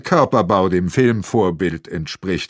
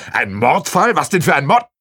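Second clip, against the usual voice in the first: louder disbelieving questions; stunned; 4 semitones higher, 4 dB louder than usual. Acted. Aschenwald learns of a murder case, loudly aghast. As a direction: ask it aghast.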